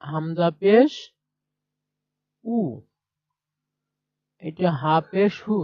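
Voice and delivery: teacher sounding out হু from হা plus পেশ; pronunciation demonstration. Shown as a demonstration. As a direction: spell হামজা পেশ, pause, then sound a lone উ. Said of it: "উচ্চারণ কেমন হবে?".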